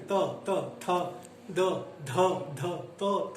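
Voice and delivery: त थ द ध said one by one; tongue tip on the teeth for त थ द ध; dental consonants. Shown as a demonstration. Teacher demonstrating dental sounds to students, clearly articulated. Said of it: "त बोल के देखिए".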